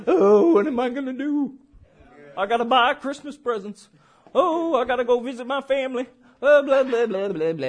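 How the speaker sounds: lightly whining, fretful mock voice; mock worrier. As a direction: fret aloud in hammed-up worry. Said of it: "garbage your head may be thinking".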